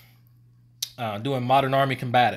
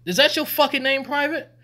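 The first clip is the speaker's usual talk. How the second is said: raised, high-pitched challenge to a private; retold incredulous demand, louder and higher; incredulous grilling; 14 semitones higher, 4 dB louder than usual. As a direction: question the recruit in mock outrage. Acted questioning of a recruit.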